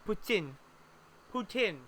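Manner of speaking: poutine said poo-tin, short final vowel; French-Canadian pronunciation. Shown as a demonstration. Showing how French speakers say poutine. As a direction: poutine with a short i, not teen. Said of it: "That's what they're saying".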